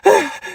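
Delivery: high gleeful burst of laughter; short victorious cackle; triumphant laugh. Acted. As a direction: laugh like a revived heroine. Patient wakes triumphant.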